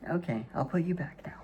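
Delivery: fast soft whisper to the dog; quickly whisper, putting the pet down. Real, not acted.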